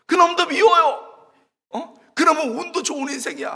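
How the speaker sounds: high, loud re-enacted complaint; resentful outburst. Student complaining to God about a lucky friend, resentful shouting. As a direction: cry out with envy and grievance.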